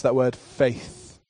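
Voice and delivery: slow, deliberate weight on faith; stress on faith. Real, not acted. Preacher singles out a word for the church, stressing faith. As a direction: draw out the word faith for emphasis. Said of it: "I just wanna em-, emphasize".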